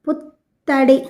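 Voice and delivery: పుత్తడి with a held, doubled త్త; pressed double consonant. Shown as a demonstration. Teacher has pupils repeat along, పుత్తడి with త్త pressed hard. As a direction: press on the త్త in పుత్తడి, pausing before release. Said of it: "ఒత్తి పలకాలి".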